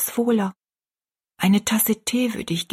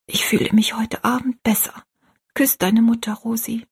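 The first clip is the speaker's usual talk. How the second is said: whispering; 4 semitones higher than usual. Acted. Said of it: "flüsterte sie".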